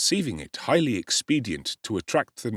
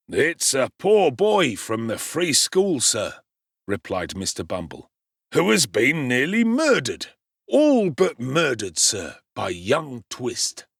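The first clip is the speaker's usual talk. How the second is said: pompous beadle; 3 semitones higher, 4 dB louder than usual. Acted. Beadle reporting to gentleman.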